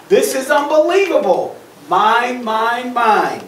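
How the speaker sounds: loud, possessive acted tantrum; upset pigeon. Pigeon claiming the hot dog, upset. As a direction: start high and indignant, hammer out each word. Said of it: "He's really upset".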